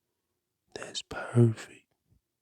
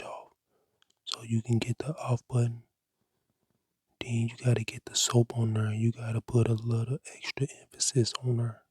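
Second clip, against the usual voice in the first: ASMR whisper. Acted. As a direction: breathe the words like an ASMR cleaning video. Whispered ASMR cleaning tutorial.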